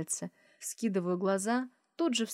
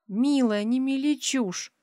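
mock hiss; 6 semitones higher, 5 dB louder, slower than usual. A narrator's reading. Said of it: "Шиплю, как особо ядовитая змея".

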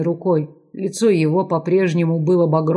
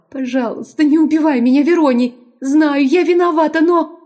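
high, loud, frightened plea; frightened wailing; 10 semitones higher, 4 dB louder than usual. A narrator's reading. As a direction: lament in fear, much higher. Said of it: "испуганно причитала".

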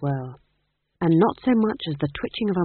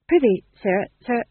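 nervous fool; 6 semitones higher, 5 dB louder than usual. Acted. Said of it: "swallowed nervously".

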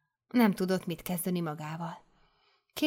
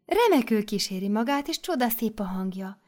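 mother superior; 2 semitones higher than usual. Acted. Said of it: "mondta a főnöknő".

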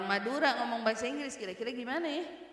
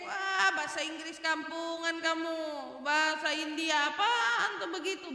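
higher-pitched mock taunt; mocking jeer; 4 semitones higher than usual. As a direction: imitate someone sneering at bad English. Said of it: "Mau diejek".

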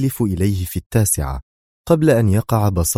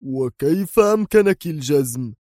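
more agitated; 7 semitones higher than usual. A narrator's reading. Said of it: "سأل بانفعال أكبر".

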